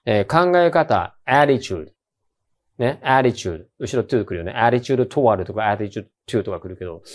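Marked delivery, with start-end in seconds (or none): 1.3-1.9 attitudeのaを強く; 頭を強く言う; 先頭に強勢. Shown as a demonstration. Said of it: "あが強くないと". 3.0-3.7 attitudeのaを強く; 頭を強く言う; 先頭に強勢. Shown as a demonstration. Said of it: "あが強くないと".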